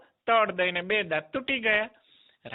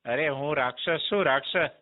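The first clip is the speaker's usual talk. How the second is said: boastful demon; 3 semitones lower than usual. Acted. Demon announces himself.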